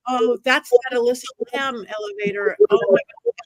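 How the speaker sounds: realizing where she is, rising alarm; surprised gasp. Retold or imitated. To the interviewer, retelling her shock at the elevator, surprised.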